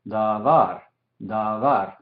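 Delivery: Davar with the weight landing on VAR; stress on the last syllable. Shown as a demonstration. Teacher showing the tonic syllable, Davar stressed on the final var. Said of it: "porque enfatizamos eso".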